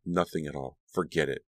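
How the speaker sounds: quiet, sullen mutter. Acted. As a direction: mutter it and turn away. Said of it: "Dee muttered".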